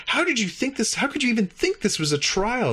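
high, puzzled alien voice; baffled alien. Retold or imitated. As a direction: pitch way up, bewildered. Klar baffled by the crew.

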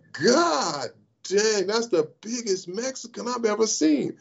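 high, wide-eyed country bumpkin; country boy voice. Retold or imitated. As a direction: sound like a naive kid fresh from the country. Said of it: "once again, from the country".

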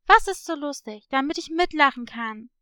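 loud, brusque challenge. Acted. Girl challenging someone who makes fun of her, brusque. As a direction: call it out harshly at whoever is laughing. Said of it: "rief Patricia barsch".

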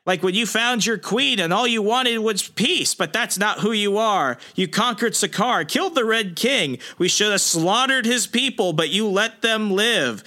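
reminding Hulk who he really is; gloating villain. Retold or imitated. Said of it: "he's like".

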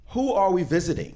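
high, loud, naive asking; innocent question. Retold or imitated. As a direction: play the clueless kid, all innocence. Naive question to angry mother.

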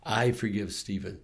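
soft, steady repeated affirmation; quiet forgiveness mantra. Shown as a demonstration. Pastor modeling self-forgiveness for listeners, softly repeated. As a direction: say it gently to yourself like a prayer. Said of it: "Say it seven times".

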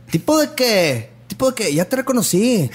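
put-on Monterrey fresa accent. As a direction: sing it like a Monterrey rich girl. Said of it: "el acento regio es". (acento regio fresa)

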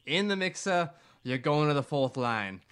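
a mock coach barking the order, lightly voiced; half-hearted imitation of the coach; terrible Capuano impression. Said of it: "That was a terrible Capuano accent".

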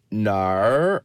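Australian "No", stretched and rising; Australian accent. Shown as a demonstration. Host having another go at the accent, Australian accent. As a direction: practise a long Australian "No". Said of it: "So Australian".

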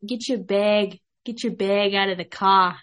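brash East Coast accent. Shown as a demonstration. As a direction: bark it like a New Yorker. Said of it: "My East Coast voice".

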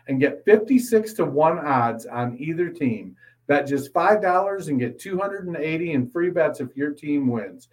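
brisk sponsor read; smooth promo read with disclaimers. Acted. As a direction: rattle off the ad copy like a radio spot. Reads a sportsbook ad.

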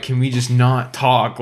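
retold screaming plea, drawn out; slow, exasperated imitation of screaming; mild mock scream. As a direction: act out a scream without really yelling. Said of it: "screaming, like, at the top of my lungs".

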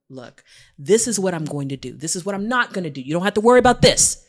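quick, building to loud insistence; imitating a partner's emphatic assurance; firm reassurance. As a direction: lay down a promise, firmly. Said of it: "told me things that made me feel secure".

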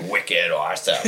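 mock Boston accent, amused; hammed-up Boston townie accent. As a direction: play up a joking Boston accent. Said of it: "pick up a Boston accent".

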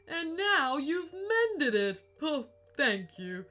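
choked-up grateful ghost; tearful. Acted. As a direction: near tears with gratitude. Viking moved by mended amulet.

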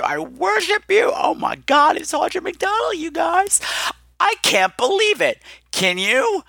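screaming at the top of her range; ecstatic fan shriek. Real, not acted. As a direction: lose it like a superfan. Fan losing it over celebrity.

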